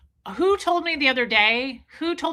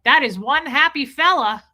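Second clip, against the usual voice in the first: hearty announcer; 5 semitones higher, 8 dB louder than usual. Retold or imitated. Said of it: "Fred Willard's like".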